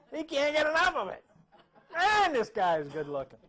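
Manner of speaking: loud, amused awe at his own looks; mock admiration. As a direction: gush over the handsome reflection, half laughing. Mock admiration, amused narcissism gag.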